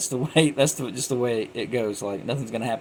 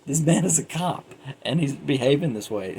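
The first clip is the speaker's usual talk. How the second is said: incredulous; 4 semitones higher, 3 dB louder than usual. Retold or imitated. Incredulous at cop's behavior.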